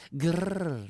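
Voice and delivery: a playful little growl; mock growl. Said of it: "Galit siya". (pabirong ungol)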